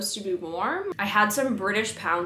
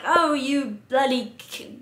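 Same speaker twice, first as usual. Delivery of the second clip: a hammed-up indignant Englishman, higher and slow; mock angry Piers Morgan; 6 semitones higher, 3 dB louder, slower than usual. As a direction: play an outraged pundit, half-joking. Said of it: "Piers Morgan posted this angry tweet and was like".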